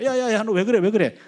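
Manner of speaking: father shouting at his daughter through her door; retold yelling. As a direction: rattle it off like a worried dad banging on the door. Dad bangs on daughter's door.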